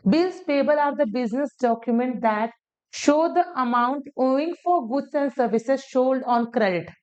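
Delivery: slow, deliberate dictation pace. Shown as a demonstration. Teacher dictating the English definition slowly to students. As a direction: read the definition out slowly for notes. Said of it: "reading the English definition slowly".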